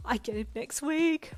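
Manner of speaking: high, loud, breathless-with-joy squeal; excited. A narrator's reading. Friend tells when the puppy comes, very excited. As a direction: share it as if bursting. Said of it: "Brian said excitedly".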